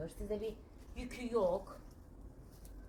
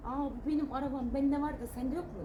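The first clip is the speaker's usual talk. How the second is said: mock bragging voice a little higher; mocking show-off; 5 semitones higher than usual. Vlogger mocking a bragging emigrant, teasing. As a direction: sneer like a show-off flaunting his car.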